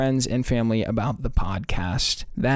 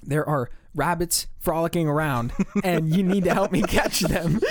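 imitating a dead-serious oddball. Man at the driver's window, dead serious about rabbits. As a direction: deliver it with grave, deliberate earnestness. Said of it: "looks at me dead serious and says".

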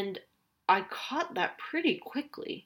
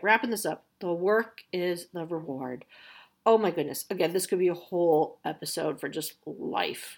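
ordinary talk

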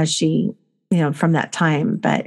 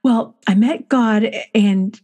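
put-on child's voice; 4 semitones higher, slower than usual. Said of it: "And she goes".

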